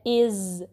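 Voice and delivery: इज़ with a sharp dental buzz; crisp voiced ending on इज़; sharp dhal. Shown as a demonstration. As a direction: finish इज़ sharply on the tongue tip. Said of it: "इसको हमने sharply पढ़ना है".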